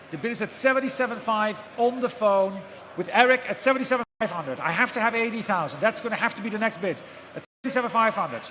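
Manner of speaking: brisk rhythmic auction calling; auctioneer. Real, not acted. Live auction calling bids.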